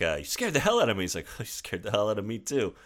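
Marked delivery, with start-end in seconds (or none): 0.2-1.0 higher-pitched imitation of her; imitating her, pitched up; woman's startled retort. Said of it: "she's like". 1.3-2.7 softer, casual imitation of him; mock-casual reply, played down; playing it off. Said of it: "the way that he kinda plays it off".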